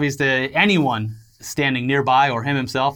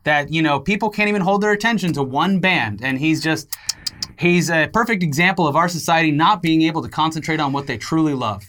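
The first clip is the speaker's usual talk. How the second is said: pompous excuse voice. Pretend. Voicing a musician's excuse.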